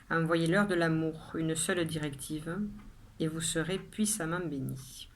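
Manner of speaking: measured poem reading with pauses after each line; poem recitation. Acted. Poet reading her own poem to viewers, measured recitation. Reads the poem a second time.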